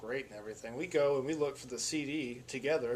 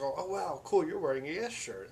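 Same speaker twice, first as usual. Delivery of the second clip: retold excited greeting, lifted pitch; pleasantly surprised; 4 semitones higher than usual. Fellow fan spots his Yes shirt in the parking lot, pleasantly surprised. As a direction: imitate a fan's happy surprise.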